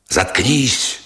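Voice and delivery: understated ferocious outburst; mild fierce yell. A narrator's reading. Sergeant silences the sobbing woman, restrained fierce yell. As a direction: cut her off fiercely without full volume. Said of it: "заорал с расхлёстнутой свирепостью".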